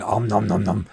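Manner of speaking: mock gobbling sounds; playful munching noise. Podcaster recalling gooey custard buns, playful munching. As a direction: pretend munching, "om nom nom".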